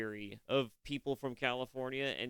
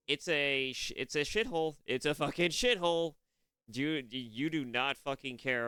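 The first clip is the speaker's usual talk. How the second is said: higher and louder, spitting out shithole; real exasperated outburst, higher and louder; heated rant; 4 semitones higher, 5 dB louder than usual. Real, not acted. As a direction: build up the outrage and bark it out. Ranting about California.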